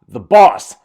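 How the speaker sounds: loud, punched announcer catchphrase; mock commentator shout. Vlogger mocking the commentator as Sasha Banks comes out, mock shout. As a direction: belt it out like a ringside commentator. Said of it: "Michael Cole shouting".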